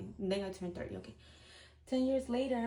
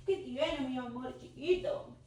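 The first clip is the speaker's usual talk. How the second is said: higher, tender voice for a little one; 4 semitones higher than usual. Real, not acted. Checking on her little child, high and tender.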